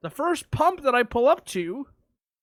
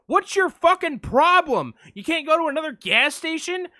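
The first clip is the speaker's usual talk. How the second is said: angry retold bunny; 6 semitones higher than usual. Easter Bunny snapping at the driver over the pump, raised mock rant. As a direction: have the bunny lose his temper.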